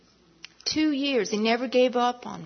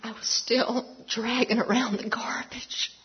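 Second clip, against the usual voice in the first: choked-up testimony. Real, not acted. Testimony while overcome by emotion.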